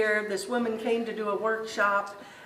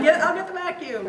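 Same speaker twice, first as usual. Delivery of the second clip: higher and louder, half-laughing panic; mock alarm; 8 semitones higher, 6 dB louder than usual. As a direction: play up the old urge to grab the vacuum. Old reflex on seeing spiders.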